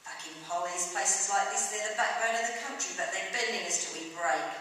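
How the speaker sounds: forceful pub grumble; indignant rant. Acted. Drinker ranting about politicians, indignant. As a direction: rail against those in charge.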